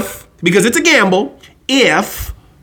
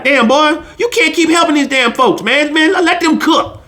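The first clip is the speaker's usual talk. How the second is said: imitating dad; 4 semitones higher than usual. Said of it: "he talked like that".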